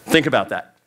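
usual speaking voice

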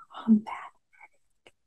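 silent, slow mouthed words. A narrator's reading. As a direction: barely breathe the words, sly. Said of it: "she mouthed".

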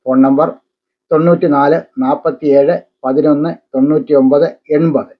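measured advertisement read with separated phrases. Acted. Newsreader urging parents to take up kalari and yoga, ad read.

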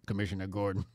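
low superhero impression; Batman. Co-host joking about the deep voice, low mock superhero. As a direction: drop low, naming the police commissioner. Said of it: "Brittany Griner sound like Batman".

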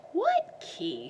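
high, puzzled question; confused. Acted. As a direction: sound lost and puzzled. Miss Girk confused.

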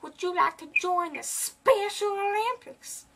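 high breathy whisper in a put-on voice; hushed squeaky prank caller; whispered fake voice.

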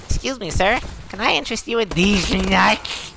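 high, polite street-vendor pitch; a hammed-up salesman voice; mock salesman. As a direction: play a pushy nut seller.

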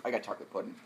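words round a chewed candy; eating gross jelly beans. Real, not acted. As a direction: mouth full, chewing a jelly bean. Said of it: "It took me a second to recognize the flavor".

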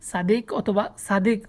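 সাদিক said "saadik", with a light s both times; foreigners' plain sin. Retold or imitated. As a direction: say সাদিক with thin sin, not sad. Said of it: "তারা উচ্চারণ করে".

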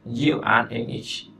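slightly slow, careful repeat; slow model repeat. Shown as a demonstration. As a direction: say it calmly for learners to copy. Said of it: "Anh ấy nói là".

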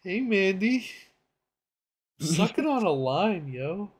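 high, swooping cartoon-boy voice; Irwin. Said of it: "that's Irwin, bro".

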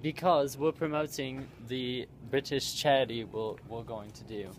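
put-on British accent, drawn out slowly. Explaining the British charity stream, in a put-on British accent. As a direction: explain it in a slow mock-British voice. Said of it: "Why are we talking in British accents again?".

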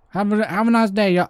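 friendly put-on southern farewell; southern accent. Gamer saying goodbye to a hillbilly, southern accent. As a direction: sign off like a southerner. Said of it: "keep the southern accent".

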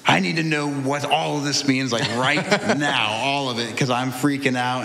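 urgent retold demand for answers; retold freak-out. Man recalling grabbing the Bible in a panic, retold freak-out. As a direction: act out frantically needing answers now. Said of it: "I'm totally just freaking out".

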